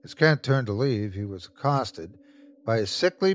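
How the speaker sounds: plain reading voice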